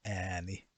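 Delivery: ääni with a long open ä; ääni, pitkä ä; long Finnish ä. Shown as a demonstration. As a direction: stretch the ää in ääni. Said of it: "pronounced as ää".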